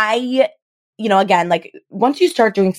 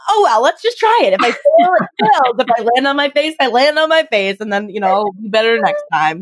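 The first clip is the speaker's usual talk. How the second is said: carefree inner voice; 5 semitones higher than usual. Retold or imitated. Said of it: "I'm always gonna be the one where it's like".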